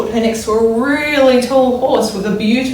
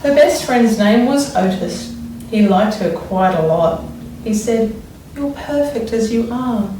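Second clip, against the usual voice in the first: put-on expressive read-aloud for children; story reading. A narrator's reading. Teacher reads picture book aloud.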